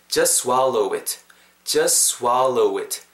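just swallow it in one run, no t in just; slow model of linked just swallow it. Shown as a demonstration. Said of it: "이렇게 부는다라는 거". (just의 t를 빼고 swallow it까지 붙여서)

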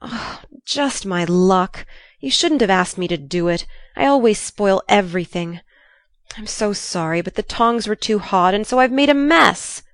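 groaning, mildly distressed apology; understated miserable groan; remorseful groan. Acted. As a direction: blame yourself, groaning with regret. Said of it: "groaned poor Jo".

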